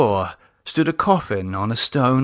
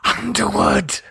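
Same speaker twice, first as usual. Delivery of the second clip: fearful cry; 9 semitones higher than usual. A narrator's reading. Frightened David names the threat.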